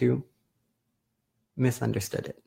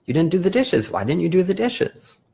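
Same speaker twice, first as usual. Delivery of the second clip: mock accusing; 4 semitones higher than usual. Shown as a demonstration. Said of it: "a fight over".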